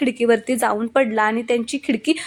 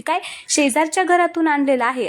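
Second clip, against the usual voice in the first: higher, mildly raised mock shout; shocked yell; 5 semitones higher than usual. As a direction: blurt it out in shock. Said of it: "Shri एकदम जोरात ओरडतो".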